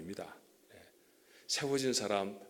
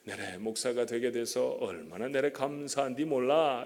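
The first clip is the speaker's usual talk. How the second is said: lightly put-on North Pyongan accent; North Pyongan dialect. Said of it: "평안북도 사투리로 말하면".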